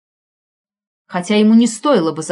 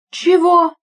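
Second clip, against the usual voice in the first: high, startled yelp of a question; baffled what; 10 semitones higher, 4 dB louder than usual. A narrator's reading. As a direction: blurt it out, caught off guard. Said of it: "переспросил Эдик".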